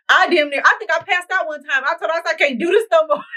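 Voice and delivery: high, strained retelling of collapse; dramatic whine. Retold or imitated. To the coach, mock-begging to stop in a high whine. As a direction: whine it high like you can't go on.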